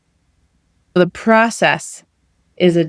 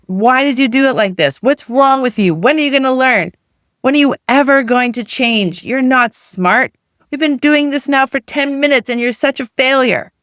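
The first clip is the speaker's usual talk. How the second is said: mock screaming parent; 5 semitones higher than usual. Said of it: "you're screaming at this five-year-old".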